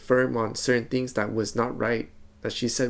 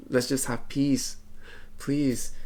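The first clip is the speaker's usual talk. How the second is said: slow, drawn-out retold pleading; a lightly voiced plea, slowed down; 2 semitones higher, slower than usual. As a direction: stretch each word out as you beg for peace. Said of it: "I was pleading with her".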